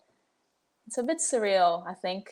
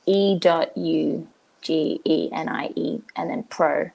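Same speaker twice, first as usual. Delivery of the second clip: spelled out slowly; 4 semitones lower than usual. Shown as a demonstration. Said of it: "One word".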